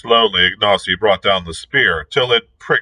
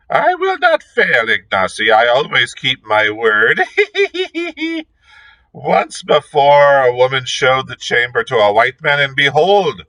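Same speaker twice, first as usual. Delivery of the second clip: put-on old witch; 5 semitones higher than usual. A narrator's reading. Gagool's sly promise.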